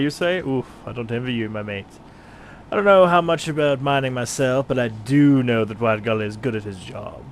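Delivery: lightly voiced brawny gladiator, hearty; a hint of a bluff British fighter greeting a newcomer; Rodgar the gladiator. Player voices gladiator Rodgar to the adventurer, lightly put on.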